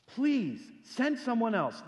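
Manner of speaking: slow, drawn-out begging; slow plea. Acted. Preacher voicing Moses begging God, slowly. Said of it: "Look, verse thirteen".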